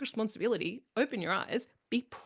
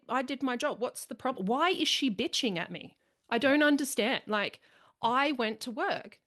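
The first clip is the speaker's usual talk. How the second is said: a hint of a smug, clueless husband, pitched up; mildly voiced lazy husband whining; mock oblivious husband; 3 semitones higher than usual. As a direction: lightly play the puzzled man in his armchair. Man complaining, mocked by wife.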